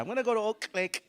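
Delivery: fast, high and loud, popped K in "Oak"; exploding K practice. Shown as a demonstration. Teacher's practice sentence, loud burst on "Oak". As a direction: explode the K of "Oak", quick and forceful. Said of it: "Practice like that".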